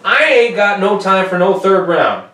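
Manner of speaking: loud, high hammed-up tough-guy voice; mock tough-guy rant. Podcast host pretending to lecture Volkan, loud mock tough guy. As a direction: bark it like a brash trash-talking coach.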